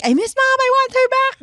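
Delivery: high-pitched mock wail, moderately loud; demonstrated scream. Shown as a demonstration. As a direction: cry it out in a high voice. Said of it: "you should be able to scream".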